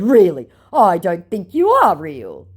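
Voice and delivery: slow, loud, lightly mocked voice; mocked scammer. Scammer starting the gaslighting, lightly mocking voice. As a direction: lightly put on his laboured English. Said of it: "my scammer said".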